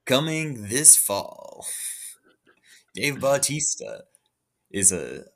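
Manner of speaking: movie trailer voice. Retold or imitated. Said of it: "a movie trailer voice is like".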